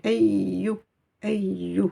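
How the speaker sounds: ayu with a held, doubled y; stress the shadda. Shown as a demonstration. Teacher to students, drilling the doubled y. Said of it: "j'insiste sur cette lettre".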